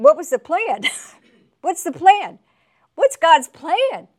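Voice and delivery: high, loud rhetorical cry; excited exclaim. Real, not acted. Preacher to congregation, loud excited cry. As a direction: throw the question out to the crowd.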